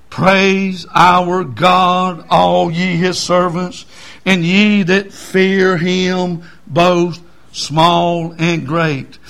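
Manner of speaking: very slow, drawn-out declamation; stately, measured pulpit reading; scripture reading. Real, not acted. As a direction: proclaim the verse slowly, phrase by phrase. Reads scripture aloud.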